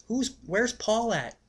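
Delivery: high, slow, spaced-out questions; confused high squeaky friend voice; dazed high-voiced friend. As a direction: play the friend as totally out of it. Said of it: "he goes".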